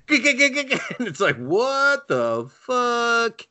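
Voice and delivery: high, slow laughing what the fuck; stretched laughing outburst; laughing disbelief. Real, not acted.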